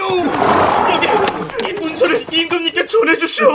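high desperate shout to a passing official; calling out. Acted. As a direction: cry out, begging him to take it. Peasant calls out to official.

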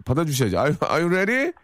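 fighting game announcer. Pretend. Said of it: "countdown like announcer".

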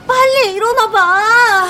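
urgent pleading. Acted. Urging friend up, strange noises.

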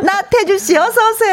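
high, cheerful welcome; bright welcome. Real, not acted. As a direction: greet the guest brightly. Host welcomes guest.

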